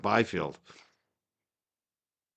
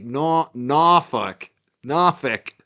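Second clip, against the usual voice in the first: NORFOLK as "NAH-fick", South Shore accent; much slower than usual. Shown as a demonstration. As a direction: try a drawn-out South Shore "Norfolk", dropping the R. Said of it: "accent on Norfolk".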